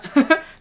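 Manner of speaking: sudden high burst of laughter; loud laugh. Real, not acted. Laughs at ditto comment.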